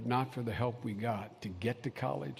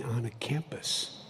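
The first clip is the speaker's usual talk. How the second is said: hushed; 3 dB quieter, slower than usual. Real, not acted. Sudden hushed emphasis.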